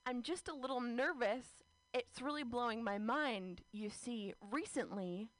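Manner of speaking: slow, overly formal speech; a lightly voiced, stiff confession; mock formal confession. Woman confessing a dream to her crush, slow and stiff. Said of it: "I was saying these words".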